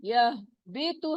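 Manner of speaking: यह भी तो drawn out, slow; slow demo recitation; slow model reading. Shown as a demonstration. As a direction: say it slowly for the class. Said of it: "हा की sound आपने सही निकालनी है".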